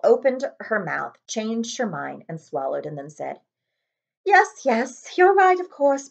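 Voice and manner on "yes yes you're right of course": high, crisp stern Scottish teacher; brisk and proper, giving in; McGonagall voice. Acted. McGonagall to Dumbledore, high and stern.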